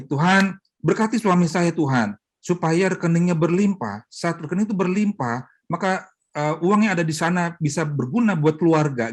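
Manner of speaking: kind prayer. Retold or imitated. Wife praying kindly for her stingy husband, earnest blessing. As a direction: bless him gently for his savings to grow. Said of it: "Tapi udah gini".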